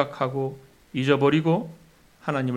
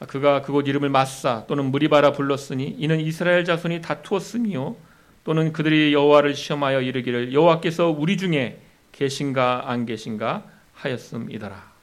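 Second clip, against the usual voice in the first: raised, loud reading of the verse; solemn Bible reading, louder; scripture reading; 4 dB louder than usual. Acted. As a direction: read the passage out to the congregation. Reads Exodus verse aloud.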